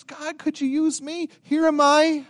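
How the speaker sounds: timid volunteer finding courage; Isaiah answering God in fear, then offering himself; afraid Isaiah. Acted. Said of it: "he's afraid".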